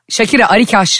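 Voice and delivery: name said in reverse; backwards speech. Shown as a demonstration. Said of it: "tersten okurum".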